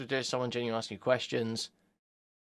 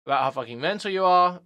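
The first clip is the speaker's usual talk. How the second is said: angry reading; 5 dB louder than usual. Retold or imitated. Reading out abusive messages, louder.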